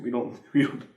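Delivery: laughing through the words; real laugh at own joke. Real, not acted. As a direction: chuckle it out, embarrassed.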